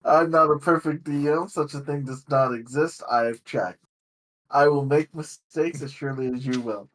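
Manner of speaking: measured, fluent prepared monologue; game master's opening speech. Real, not acted. Game master opening the session to players, prepared monologue. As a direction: deliver it as a sincere table preamble.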